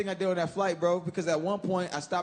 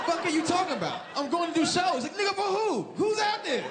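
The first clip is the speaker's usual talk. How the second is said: panicked outburst; 9 semitones higher than usual. Retold or imitated. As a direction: sound spooked and baffled. Retelling panicked reply to friend.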